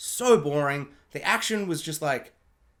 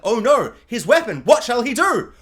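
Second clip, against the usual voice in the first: mock dramatic; 2 semitones higher, 5 dB louder than usual. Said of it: "you're like".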